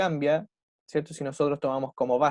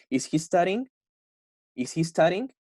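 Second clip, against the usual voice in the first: "Is he studying?" rising to a higher pitch at the end; rising question intonation; 3 semitones higher than usual. Shown as a demonstration. Teacher showing students how yes-no questions sound, rising intonation. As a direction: let the voice climb on "studying?". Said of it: "tiene que poner una entonación como hacia arriba".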